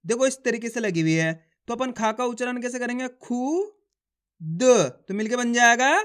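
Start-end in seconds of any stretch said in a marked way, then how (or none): 3.1-3.7 खू said as a quick khu with a short u. Shown as a demonstration. Teacher to pupils, sounding out the first letter. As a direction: keep the u in खू short. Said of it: "कम खींच के पढ़ा जाता है".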